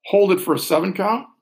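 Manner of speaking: calm, paced counting with long pauses; slow breath counting. Shown as a demonstration. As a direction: guide the breath gently and slowly. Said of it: "I'll talk us through one more".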